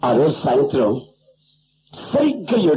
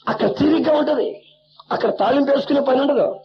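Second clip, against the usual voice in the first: sarcastic scorn; 9 semitones higher than usual. Acted. Sarcastic preacher rebuke.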